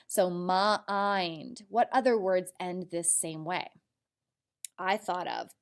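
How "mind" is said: "mind" with a stretched long I; drawn-out long I. Shown as a demonstration. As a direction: draw out the I in "mind". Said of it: "it makes the long I".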